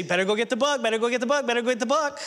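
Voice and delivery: lightly voiced parent's singsong warning. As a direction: sing it like a playful parental threat.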